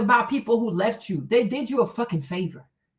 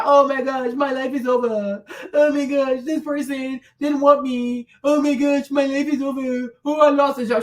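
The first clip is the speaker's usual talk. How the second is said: mock crying. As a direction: imitate someone wailing in self-pity. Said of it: "when I see people cry".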